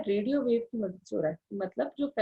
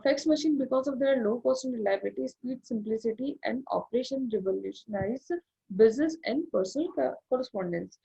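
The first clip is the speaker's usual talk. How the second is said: slow, deliberate textbook reading, word by word; reading aloud; much slower than usual. Acted. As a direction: read it out slowly like dictation. Reads English textbook passage. (धीमे-धीमे किताब से पढ़ते हुए)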